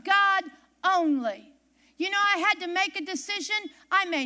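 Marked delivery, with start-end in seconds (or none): 0.0-1.5 loud preaching punch. Acted. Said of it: "preaching climax".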